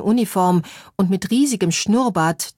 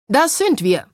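enthusiastic cry; 6 semitones higher than usual. A narrator's reading. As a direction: cheer it while clapping. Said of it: "rief Olaf begeistert".

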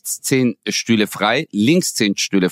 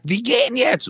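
higher, firm command; higher, insistent; insistent friend; 11 semitones higher than usual. Retold or imitated. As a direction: drag her out now. Friend pulls her away.

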